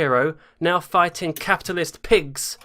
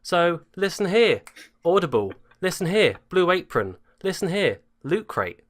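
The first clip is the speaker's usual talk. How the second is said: mock ad read; 4 semitones higher than usual. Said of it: "brought to you by our sponsors".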